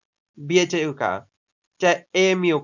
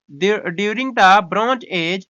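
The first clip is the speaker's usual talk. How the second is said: slow read-aloud; much slower than usual. Shown as a demonstration. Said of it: "reading the textbook aloud".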